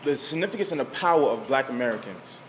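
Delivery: ordinary talk, nothing marked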